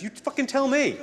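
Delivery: high, laughing outburst; mocking exasperation. Real, not acted. Comedian mocking news that asks viewers, laughing loudly. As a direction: throw it back at them, laughing.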